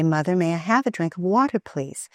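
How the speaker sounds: quick, polite, pleasant request. Shown as a demonstration. Mother modelling the polite way to ask for water. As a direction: ask nicely, sweetly. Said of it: "with a pleasant tone".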